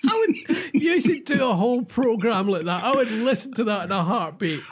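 high, bright, delighted. Real, not acted. Cohost delighted by the Yorkshire news idea. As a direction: gush about the idea.

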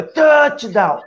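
touchdown said high in English; English pronunciation. Retold or imitated. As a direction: imitate an American saying touchdown. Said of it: "Que você escuta".

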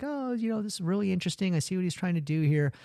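high, airy connoisseur voice; a hint of a snooty food critic; pretentious critic. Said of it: "the food critic is kinda like".

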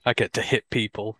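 low, casual imitation of a player; lightly voiced nonchalant athlete. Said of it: "it's just so nonchalant".

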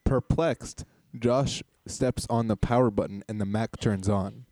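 slow, measured narrator read; scene narration. Acted. Host setting the scene for two improvisers, slow narration. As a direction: narrate the action deliberately, slowly.

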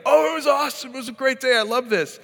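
high, bright gushing delivery of a great day; imitating gushing son. Son texting parents about his great day, high gushing mock joy. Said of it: "It's either a ten or a one".

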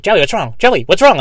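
lightly voiced worried friend; mock worried friends. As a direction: friends checking on jittery Joey. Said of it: "they'll be like".

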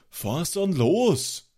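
high, drawn-out shout to get moving; urgent yell. A narrator's reading. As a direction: yell to the driver, stretching the words. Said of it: "schrie Freund Christoph".

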